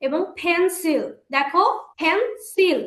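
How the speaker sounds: slow পেন্সিল in two beats; slow syllable demo. Shown as a demonstration. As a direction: stretch পেন্সিল into pen and sil. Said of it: "দুইবারে উচ্চারণ করছি".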